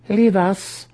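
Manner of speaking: high sharp command. A narrator's reading. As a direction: order them out at once. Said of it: "Senefe commanded".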